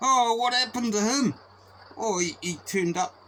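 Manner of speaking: high, loud mock-innocent question; hammed-up innocent asking what happened; feigned innocence. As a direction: ask as if nobody knows a thing.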